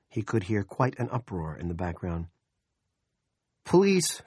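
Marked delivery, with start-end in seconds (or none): 3.6-4.2 high, loud, rushed dispatcher; harried female dispatcher voice; Stacy's harried voice. A narrator's reading. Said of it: "she said".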